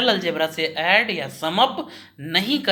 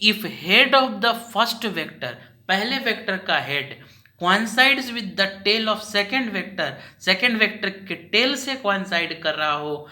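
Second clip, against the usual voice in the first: slow dictation; slower than usual. Shown as a demonstration. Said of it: "मैं धीरे धीरे भी बोल रहा हूँ".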